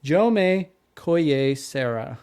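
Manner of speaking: JOME KOYE SARAH slowly, word by word; careful name pronunciation. Shown as a demonstration. Host reporting the director's researched name, JOME KOYE SARAH spaced out. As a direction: sound out JOME KOYE SARAH in separate pieces. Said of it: "How do we say that?".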